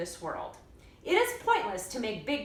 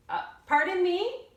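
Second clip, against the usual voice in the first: polite lady; 9 semitones higher, 4 dB louder than usual. A narrator's reading. Lady answering from the road.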